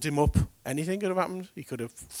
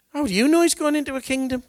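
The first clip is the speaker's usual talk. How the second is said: much higher and louder, pressing the question; loud rhetorical question; 11 semitones higher, 7 dB louder, faster than usual. Acted. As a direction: demand it of the crowd. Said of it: "preacher asks twice, loud then soft".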